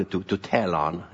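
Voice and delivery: ordinary delivery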